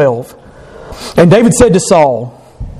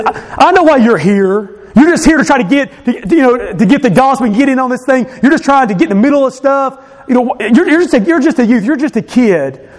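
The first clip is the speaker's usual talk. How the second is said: higher-pitched brotherly scolding; reproving; 6 semitones higher than usual. Retold or imitated. Older brother telling off young David, reproving. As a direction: put the youngster in his place. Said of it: "reproves him and says".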